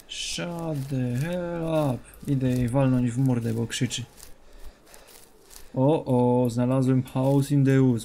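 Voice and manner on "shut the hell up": slow, dragged-out annoyed shut up; drawn-out shut up. Real, not acted. To the screaming woman, slow drawn-out shut up. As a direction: stretch every word to shut it up. Yelling at screaming game character.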